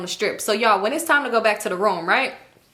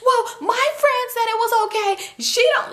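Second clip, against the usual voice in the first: high-pitched mimicked protest; mock defensive high voice; put-on voice; 12 semitones higher, faster than usual. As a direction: imitate her in a raised, hurried squeak. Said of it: "let me talk regular".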